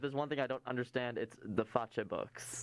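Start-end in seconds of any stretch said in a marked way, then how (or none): 1.4-2.6 slow, botched "Fache books"; deliberate mispronunciation. Pretend. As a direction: say "Fache" for Face, drawn out, feigning cluelessness. Feigning incompetence with social media.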